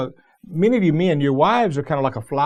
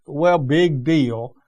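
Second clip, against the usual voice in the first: dismissive; much slower than usual. Retold or imitated. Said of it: "instead of her saying".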